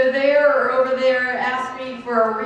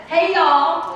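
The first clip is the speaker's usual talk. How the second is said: a raised, friendly Southern hey y'all; hearty greeting call; 3 semitones higher than usual. Shown as a demonstration. Speaker to audience, a warm raised greeting. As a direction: call it out to the whole room. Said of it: "So let me try this again".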